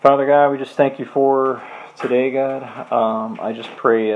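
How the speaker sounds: earnest closing prayer to God; spoken prayer. Acted. Leading the group in closing prayer, earnest. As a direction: pray it sincerely, addressing the Lord.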